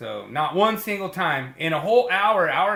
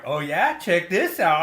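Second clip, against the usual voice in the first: louder, rising then swooping mock brag; playful one-upping; 2 semitones higher, 5 dB louder than usual. Podcaster retelling his contest with a friend, playful one-upping. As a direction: top your rival with a playful boast.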